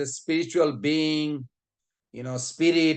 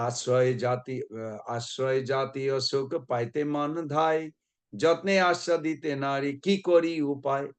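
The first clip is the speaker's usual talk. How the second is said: quick, rhythmic chanting of Bengali verse; rapid verse recitation; much faster than usual. Shown as a demonstration. Preacher reciting verse to the congregation, rapid rhythmic chant. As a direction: rattle off the scripture verse from memory.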